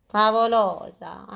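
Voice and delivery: slow, drawn-out call with rising end; searching call. Pretend. Speaker looks for vanished companion, calling slowly. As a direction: call the name out slowly, questioningly.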